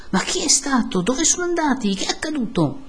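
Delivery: high, pressing questions; insistent questioning. A narrator's reading. Villagers press the priest for news, insistent questioning. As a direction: demand answers from someone above.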